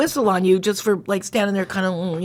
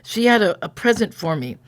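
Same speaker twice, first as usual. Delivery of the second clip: measured reading with pauses between phrases; story narration. A narrator's reading. Describing the dress bubby made as a present, in a narrating voice. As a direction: narrate it evenly, as from a page.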